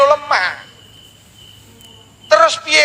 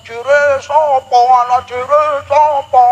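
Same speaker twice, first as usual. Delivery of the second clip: mock yell; 3 dB louder, slower than usual. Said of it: "tak bengoki".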